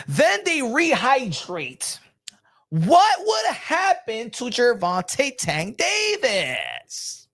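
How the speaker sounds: deliberate, stretched-out explanation with pauses; slow. Shown as a demonstration. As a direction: lay it out slowly, phrase by phrase. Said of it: "let me say it slow".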